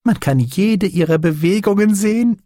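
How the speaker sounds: high-pitched, thrilled delight; jubilant. A narrator's reading. Doctor watches his bees through glass, jubilant. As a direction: exult in what you see. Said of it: "jubelte er".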